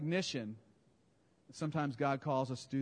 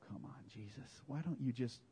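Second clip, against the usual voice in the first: mock disciples pleading; 3 semitones higher than usual. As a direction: beg like reluctant followers. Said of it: "They go".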